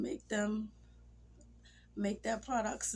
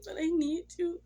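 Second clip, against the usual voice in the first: louder, higher, begging cry; loud tearful plea; 7 semitones higher, 7 dB louder than usual. Retold or imitated. Widow begging her late husband, loud tearful plea. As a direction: cry out to him that you need him.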